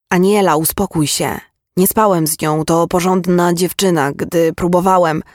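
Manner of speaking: insistent, defensive denial; urgent protest. Acted. Accused man tries to calm the furious mother, urgent protest. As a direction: defend yourself with some force.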